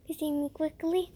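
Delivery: hushed, breathless plea in a whisper. A narrator's reading. Terrified rat begs the cat to eat him, whispering. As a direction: beg in a barely audible whisper. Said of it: "said Whisper".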